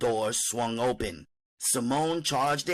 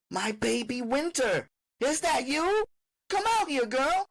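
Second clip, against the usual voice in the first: high, sweet calling mother. Acted. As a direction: coax her out in a high voice. Mother calls to her daughter.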